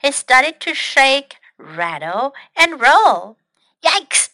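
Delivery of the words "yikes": high, brief cry of alarm; startled cry. Acted. Snail as the extinguisher starts shaking, startled cry. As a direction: yelp it lightly, as in a children's story. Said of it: "Snail cried".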